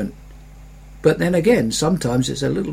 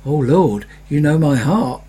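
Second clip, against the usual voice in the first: mock exasperated prayer; 3 dB louder than usual. Angry in traffic.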